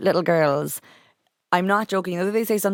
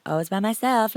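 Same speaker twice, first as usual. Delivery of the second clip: higher mocking echo of a quoted line; daughters mocking their mother's line; 5 semitones higher than usual. Daughters mocking dad behind the mother, higher. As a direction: mimic her words back, higher and teasing. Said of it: "And they're like".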